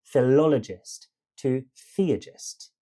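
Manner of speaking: "Philologist to theogist", each name leaning on its second syllable; second beat stressed. Shown as a demonstration. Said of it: "beat is the one we stressed".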